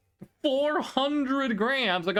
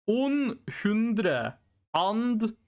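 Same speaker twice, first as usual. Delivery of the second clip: Norwegian words; much slower than usual. Pretend. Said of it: "what I said in Norwegian".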